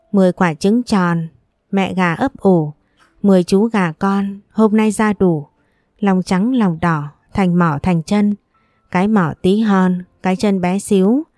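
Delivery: proud little schoolboy reading his poem aloud; measured, sing-song poem recital; confident recitation. A narrator's reading. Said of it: "Vũ dõng dạc cất lời".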